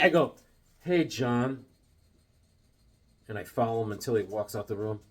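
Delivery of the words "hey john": low-key, intense greeting back; intense reply. Retold or imitated. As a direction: return the greeting with pointed restraint, no cheer. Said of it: "so I do it very intensely".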